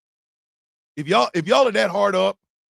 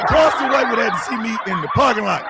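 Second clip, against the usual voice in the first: louder, laughing through the threat; 4 dB louder, faster than usual. Real, not acted. Comedian repeating his parking lot threat, laughing. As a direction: say it again cracking up. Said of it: "That's how the".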